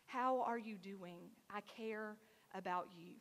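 slow, soft caring voice; a soft, quiet check-in; gentle whisper. Shown as a demonstration. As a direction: ask it slowly and tenderly. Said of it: "let God use you as a whisper".

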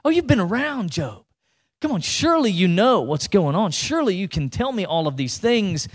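mock-admiring needling that starts high; acted ironic challenge from God; sarcastic. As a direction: tease him for claiming to know everything. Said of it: "Can you hear the sarcasm in, in God there".

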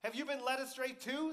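high, loud scornful question; mocking. Frustrated Pharisees to the temple guards, mocking. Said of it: "the Pharisees mocked".

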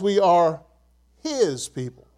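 pause, then his set apart; stress on his. Shown as a demonstration. Preacher reading the psalm aloud, his emphasized after a pause. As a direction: hold back before his, then mark it. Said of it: "I'm gonna emphasize the word his".

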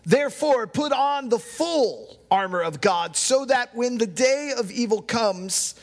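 slow, deliberate reading with weighty pauses; solemn scripture reading. Real, not acted. Pastor reading Ephesians to the congregation, solemn scripture reading. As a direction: read it out phrase by phrase, measured.

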